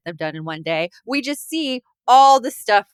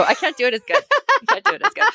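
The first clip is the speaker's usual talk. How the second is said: failed gremlin voice; 10 semitones higher, much faster than usual. Acted. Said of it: "I tried. I really tried".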